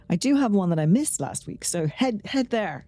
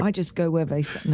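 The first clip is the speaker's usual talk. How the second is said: demonstrating a British accent; British-accented line, tried out. Shown as a demonstration. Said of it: "You say it with your British accent".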